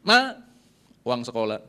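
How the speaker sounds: put-on whiny child. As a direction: call out Ma like a kid at mom. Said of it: "Betul nggak".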